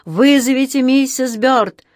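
slow, high, loud drawn-out call; echoing call. A narrator's reading. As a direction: repeat the summons like a corridor echo. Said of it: "эхом повторил голос из коридора".

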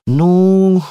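a high, unsure well; mild hesitant hum. A narrator's reading. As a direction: hesitate before going on. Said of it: "нерешительно продолжала".

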